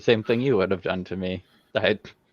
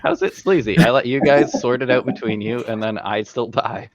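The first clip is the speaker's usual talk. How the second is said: higher, louder, playfully defensive; indignant protest; 4 semitones higher, 5 dB louder than usual. Real, not acted. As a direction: protest your innocence, half laughing. Defends himself after being called sleazy.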